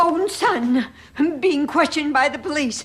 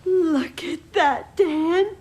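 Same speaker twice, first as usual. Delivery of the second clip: choking up with emotion; tearful; slower than usual. Acted. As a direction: hold back tears as you speak. Mother moved by the support.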